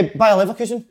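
German accent. Real, not acted. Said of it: "He's a German accent".

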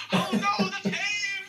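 high, slow hammy cry of pain; overacted death scene. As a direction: ham up a dying groan. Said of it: "I do fall in a dramatic fashion".

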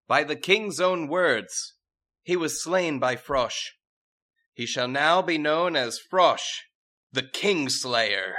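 slow, high, loud regal decree; royal proclamation. Acted. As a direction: proclaim it grandly to the court. Princess proclaims a title.

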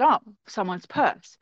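lightly surprised, drawn out; surprised find. Retold or imitated. Aunt remarking on a purse she found, mildly surprised.

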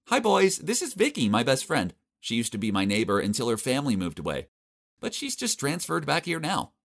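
high, bright-voiced girlfriend introducing a friend; Dana's voice. Dana introducing her best friend to the boys, cheerful high voice. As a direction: pitch up into a cheerful schoolgirl.

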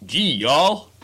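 a light southern drawl; southern accent; deep southern sheriff. Pretend. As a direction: drop into a lazy southern accent. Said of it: "deep southern James Bond sheriff".

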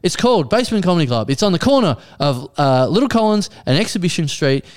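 exasperated explaining. Retold or imitated. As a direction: spell it out with strained patience. Retold exasperated directions to texter.

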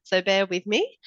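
blocked nose, nasal from a cold; nasally voice. Real, not acted. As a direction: talk through a stuffy nose. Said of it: "I have a bit of a nasally voice".

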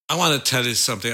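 quick, failed attempt at Cockney; rushed mock Cockney, slipping toward American; botched Cockney accent. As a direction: try Cockney and let it drift American. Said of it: "I can't do the Cockney accent".

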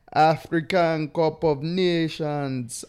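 put-on slow, drawn-out Jamaican accent. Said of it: "I don't know why the Jamaican accent there".

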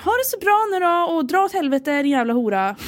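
high, far voice, cheerfully vicious; fake-sweet email insult, hammed up; mock rude sign-off. Friend imitating her fantasy email, mock venomous. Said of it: "ville jag bara skriva".

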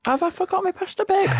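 high panicked question; sudden high worried squeal; alarmed squeak. Real, not acted. Panicked about forgotten lunch.

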